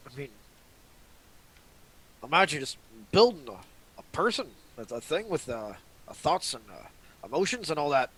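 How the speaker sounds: impressed, with halting emphasis; eager admiration. Acted. Rory answers Ellie's invitation to build robots, eager and impressed. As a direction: marvel at it, searching for words. Voicing Rory's delighted reply to Ellie.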